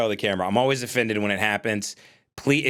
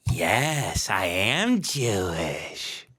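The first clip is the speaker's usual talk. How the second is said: mock Jewish reply; 5 semitones lower, much slower than usual. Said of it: "here's how they answer".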